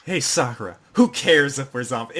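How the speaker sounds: mildly emphatic retold retort; speech repeated back. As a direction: deliver the borrowed speech firmly, unexcited. Just says Sakura's entire speech.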